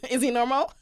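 giggling through the question; laughing. Real, not acted. Laughing repeat.

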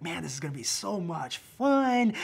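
loud, eager anticipation; excited. Retold or imitated. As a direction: retell it with keen enthusiasm. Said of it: "I was so excited".

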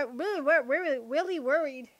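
"really worried" sliding into w sounds; tongue-tied "really worried", r turning to w; Elmer Fudd slip. Acted. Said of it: "I'm hunting rabbits".

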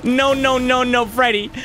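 high, frantic string of noes; high-pitched nervous laughing protest; laughing panic. Real, not acted. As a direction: plead in panic through a laugh. Laughing panic as enemy appears.

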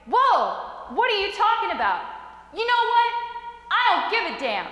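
heated retort, pitch jumping up; mad, almost crying. Retold or imitated. Hurt son answering his yelling mother, mad. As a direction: fire back angrily, retold with some restraint. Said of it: "mad, almost crying".

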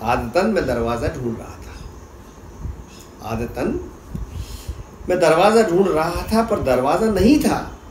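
measured poem reading with pauses between phrases; spoken verse for listeners; poetry recitation. Acted. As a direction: recite it line by line, letting each phrase settle.

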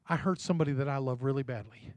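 soft, low and heavy; quiet confession. Retold or imitated. Preacher voicing the mother confessing an old hurt, hushed and sorrowful. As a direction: confess it quietly, full of regret.

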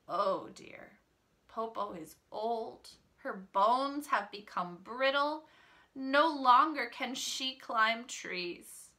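slow, lightly voiced old Popo; wolf posing as old Popo. Wolf laments brittle bones to the children, slow mild lament.

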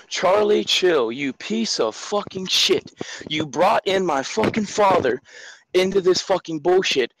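slow, deliberate, spat-out curses; every word dragged out in rage; slow furious rant. Real, not acted. Caller slowly cursing out Charlie Chill in anger. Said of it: "Is it okay if I have a freak out?".

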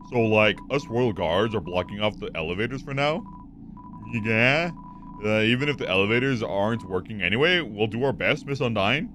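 put-on low Valley Girl guard voice, rising at ends; lightly put-on Valley Girl accent. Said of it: "the Valley Girl accent".

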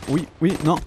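delighted by a lucky kill; surprised gamer whoop; surprised cheer. Real, not acted.

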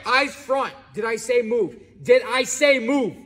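angry. Acted. Cop snaps at moving driver.

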